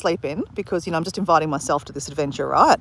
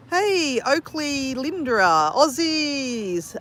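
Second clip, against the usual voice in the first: high, soft sing-out hello; calling a greeting; 6 semitones higher, 5 dB quieter, much slower than usual. Real, not acted. Streamer greets fellow Aussies in the chat, calling out. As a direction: stretch out a high-pitched greeting.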